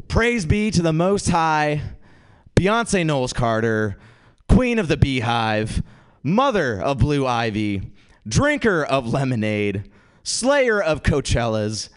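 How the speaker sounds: slow, grand roll-call of titles; mock reverent proclamation. Comic praises women like a goddess, mock reverent. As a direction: proclaim each title slowly, as if in worship.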